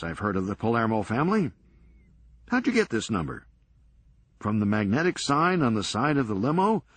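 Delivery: brisk, sardonic comeback; wry Serge. Acted. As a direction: toss it off dryly, quick. Serge on phone with mob.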